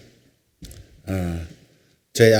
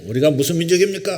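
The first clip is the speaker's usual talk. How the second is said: higher, quicker question rising through the line; wife's playful question; 5 semitones higher, faster than usual. Retold or imitated. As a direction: call it out to the group like a playful quizmaster. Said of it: "아내가 또 이제 가끔 웃기지 않습니까".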